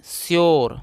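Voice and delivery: "श्योर" drawn out as one model word, falling; teacher's careful reading of "श्योर"; pronunciation demo. Shown as a demonstration. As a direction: model "श्योर" clearly for learners. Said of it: "इसको दोस्तों पढ़ते हैं".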